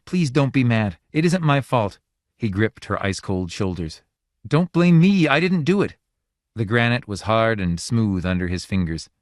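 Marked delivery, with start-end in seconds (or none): 0.1-6.0 high, louder pleading; desperate begging. A narrator's reading. Husband pleading with his wife turned to stone, begging. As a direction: beg the stone wife to forgive. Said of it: "he begged imploringly".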